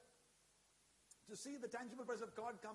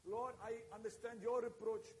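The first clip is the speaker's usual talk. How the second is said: fervent preaching. Acted. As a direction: pour it out like a rising altar call. Preaching Hannah's prayer at full force.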